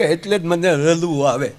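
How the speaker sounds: slow lisped "રડવું", the ડ turned to લ; lisping groom. Retold or imitated. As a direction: imitate a tearful lisper on "રડવું". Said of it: "પાછો તોતડો".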